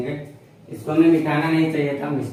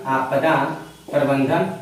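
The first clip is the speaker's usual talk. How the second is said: dictating slowly; 3 semitones lower, slower than usual. Shown as a demonstration. Teacher dictates term for notes.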